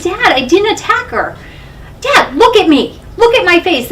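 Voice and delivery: high, loud insistence to dad; retold desperate plea. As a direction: replay begging a father to believe you. Retelling her plea to dad.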